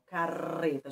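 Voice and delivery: carreta with the R trilled on the tongue tip, as in careta; vibrating tongue R. Shown as a demonstration. Teacher shows pupils the one-R sound, tongue vibrating. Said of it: "trepidei a minha língua".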